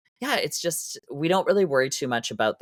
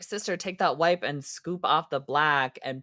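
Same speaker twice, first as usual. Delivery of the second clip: bossy sisterly advice, sassy and quick; sassy drag sister. Retold or imitated. Telling a friend how to fix smeared makeup, with sass. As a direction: boss her through the fix like a drag sister. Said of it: "Well, I was like".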